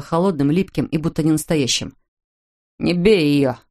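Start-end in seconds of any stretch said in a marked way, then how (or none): 2.8-3.6 a son demanding his father stop. Acted. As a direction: stand between them and command. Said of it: "потребовал он".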